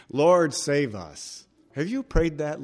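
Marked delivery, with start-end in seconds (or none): 0.1-1.4 "Lord, save us" drawn out very slowly, each word weighed; savouring the phrase. Shown as a demonstration. Preacher relishing the disciples' prayer, slow and deliberate. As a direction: linger on "Lord, save us" as if tasting it. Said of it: "What a great phrase".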